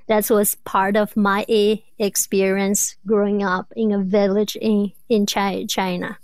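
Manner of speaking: repeating the first sound of words; stuttering. Real, not acted. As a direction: catch and restart on the first sound. Guest describes her own stutter.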